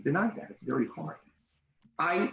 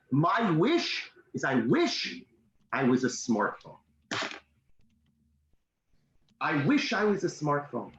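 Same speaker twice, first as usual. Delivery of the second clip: sad. Retold or imitated. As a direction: let the child's wish land, understated sadness. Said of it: "this is sad".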